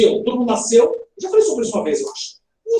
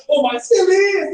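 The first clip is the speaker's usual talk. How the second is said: higher, drawn-out happy voice; put-on happier tone; demonstrated happy tone; 7 semitones higher, much slower than usual. Shown as a demonstration. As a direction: stretch it out with showy cheer. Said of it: "mudar o tom da voz pra mostrar".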